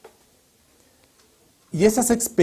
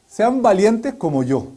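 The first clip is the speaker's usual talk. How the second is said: louder, slow, puffed-up "Sean valientes como yo"; boastful Hezekiah; 5 semitones higher, 4 dB louder, slower than usual. Retold or imitated. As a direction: ham up a proud king bragging. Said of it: "diciendo Ezequías".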